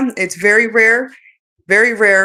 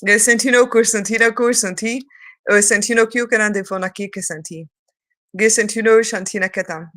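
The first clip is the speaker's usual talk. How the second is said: light language. Acted. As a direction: proclaim the syllables like a call.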